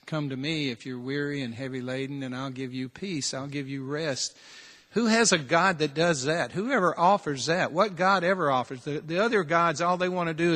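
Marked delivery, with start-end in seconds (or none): 0.1-4.4 gentle invitation. Retold or imitated. Quoting Jesus' gentle invitation.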